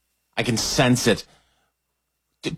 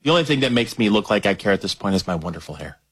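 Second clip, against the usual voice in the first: resigned, given-up delivery; mock apathy; 4 semitones lower than usual. Host kissed by lady apathy, mock-resigned. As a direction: shrug it off as past caring. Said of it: "I just don't care anymore".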